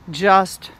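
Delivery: a drawn-out silence after just; long deliberate pause. Shown as a demonstration. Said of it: "take that silence that I just gave you".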